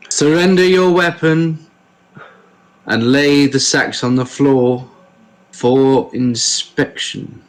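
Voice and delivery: slow, deliberate guard's command; same stern tone. Acted. Guard repeats the order to the dwarf, slow and deliberate. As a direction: draw the order out with long pauses. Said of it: "in the exact same tone".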